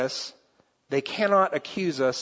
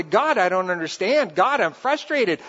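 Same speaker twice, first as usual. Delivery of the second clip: crying out to God; 4 semitones higher than usual. Retold or imitated. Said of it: "how David cries out to God".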